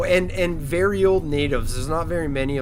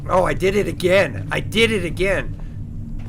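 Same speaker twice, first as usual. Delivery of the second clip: annoyed at himself; 3 semitones higher, 4 dB louder than usual. Real, not acted. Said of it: "See, short-term memory".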